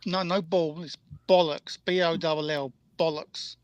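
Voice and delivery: "Bollocks" with a short British o, spelled out; proper bollocks. Shown as a demonstration. British friend teaching how to say bollocks. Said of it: "say bollocks".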